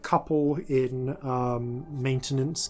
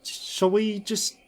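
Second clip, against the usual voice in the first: maintenance woman voice; 5 semitones higher than usual. Acted. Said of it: "is Tully Scourer, uh, the human woman".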